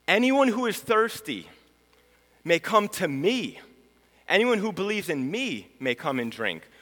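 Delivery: high, loud call ringing out over a crowd; loud cry. Acted. Jesus calling out to the festival crowd, a loud high cry. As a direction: cry it out so everyone at the party hears. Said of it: "he cries out in a loud voice".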